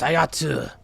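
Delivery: lightly voiced pirate crew banter; game character voices. Player voicing the shipwrecked crew's squabbles, lightly hammed-up. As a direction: read the dialogue with hammed-up flair.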